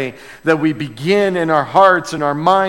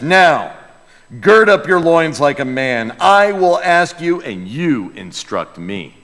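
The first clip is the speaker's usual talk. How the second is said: voice of God from the whirlwind; 3 dB louder than usual. Acted. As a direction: thunder down at Job like a storm. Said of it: "Imagine a whirlwind speaking like this".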